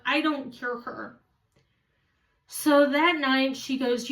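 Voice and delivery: plain reading voice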